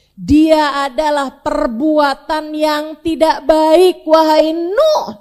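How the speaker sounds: preacher declaring God's answer slowly; solemn declaration. Acted. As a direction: hand down the judgement word by word. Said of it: "Allah bilang".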